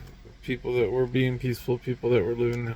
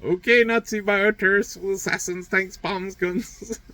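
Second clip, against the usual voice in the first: higher, louder defiant all day then; defiant taunt; 10 semitones higher, 3 dB louder than usual. Retold or imitated. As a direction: throw the challenge back, daring them. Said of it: "And I was like".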